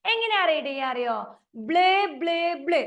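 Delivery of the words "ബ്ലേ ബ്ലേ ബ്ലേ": teacher demonstrating a blend; phonics blend. Shown as a demonstration. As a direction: sound out ബ്ലേ clearly as blay. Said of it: "നമ്മൾ എങ്ങനെയാ read ചെയ്യാന്നറിയോ?".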